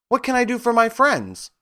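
high, squeaky mouse queen; squeaky little voice. A narrator's reading. Queen of the Mice offering friends help, squeaky and high. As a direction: squeak it like a tiny royal mouse. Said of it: "asked in a squeaky little voice".

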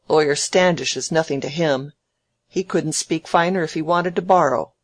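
lightly voiced snappish old man; mildly sarcastic marvelling, ending on a loud word; scoffing Featherstone.

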